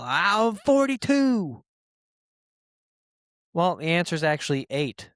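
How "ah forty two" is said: high, loud, silly blurted answer; mock blurted yell. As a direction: shout out a dumb wrong answer, way up high. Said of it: "You just yell".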